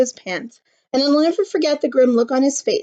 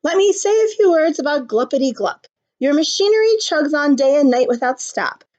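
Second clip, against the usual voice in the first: irritated scolding; 3 semitones higher than usual. Acted. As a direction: scold the factory owner. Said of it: "snapped the Lorax, his dander was up".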